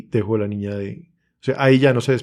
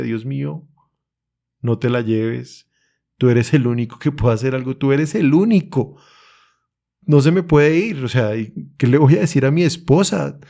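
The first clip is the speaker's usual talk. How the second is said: tearful prayer; 2 semitones higher than usual. Retold or imitated. Father on his knees praying for his baby, pleading and tearful. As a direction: beg God, lightly reliving the tears. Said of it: "Y estaba yo ahí llorando".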